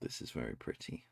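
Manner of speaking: breathy hush of admiration; whisper. Real, not acted. Whispering admiration at a pretty picture. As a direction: whisper it in awe.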